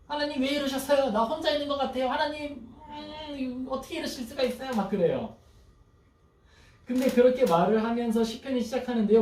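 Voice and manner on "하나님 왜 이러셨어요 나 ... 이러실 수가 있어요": higher, fading, a touch of crying complaint; lightly voiced hurt protest to God; mock wailing lament. Preacher imitating a psalmist crying out to God, mildly tearful. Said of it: "울부짖으면서 이야기해요".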